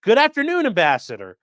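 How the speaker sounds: high, loud mock-formal greeting; mock spy greeting. Reading the FBI agent's message aloud, mock-formal and high. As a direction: sing out "Good afternoon" like a too-smooth spy. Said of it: "The message read".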